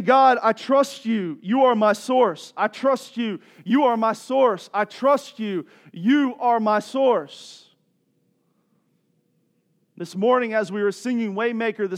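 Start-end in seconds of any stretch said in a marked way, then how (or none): 0.0-7.7 emphatic declaration of trust in prayer; forceful preaching. Real, not acted. Preacher voicing a petition to God, emphatic. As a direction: preach it with slow, weighty repetition.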